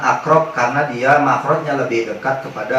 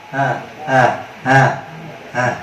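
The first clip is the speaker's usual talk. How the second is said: short breathy hah puffs; breathy hah exercise. Shown as a demonstration. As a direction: puff out hah, hah. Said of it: "Taruh di belakang gigi atas".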